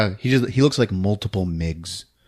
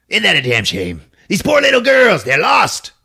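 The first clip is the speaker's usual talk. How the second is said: mock-sleazy drawling bum, rising high on girls; leering bum; 10 semitones higher, 5 dB louder than usual. Creepy bum leering at the lost girls, mock-sleazy.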